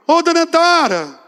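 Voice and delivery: high, stretched call across the yard. Retold or imitated. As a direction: call her name from the gate. Neighbour woman calling his mother.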